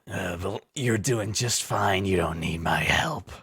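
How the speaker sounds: slow, whispered beast growl; a beast speaking inside your head. Acted. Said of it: "kinda sounds like a growling beast".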